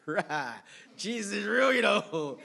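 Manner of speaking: loud, high joyful exclaim; excited cry. Retold or imitated. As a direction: burst out with the joy of conversion. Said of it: "You're like".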